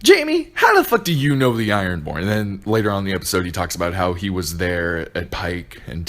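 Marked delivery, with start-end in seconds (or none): 0.0-2.2 incredulous outburst. Retold or imitated. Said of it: "I was like".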